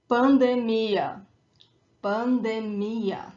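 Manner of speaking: slow pandemia, pan-de-MI-a; stress on final ia. Shown as a demonstration. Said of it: "is that ia at the end".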